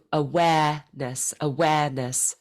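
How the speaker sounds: awareness said without the r, Mid-Atlantic style; no r sound. Shown as a demonstration. Coach showing Luis the Mid-Atlantic awareness. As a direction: drop the r in awareness. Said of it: "you would drop the r-, the er sound".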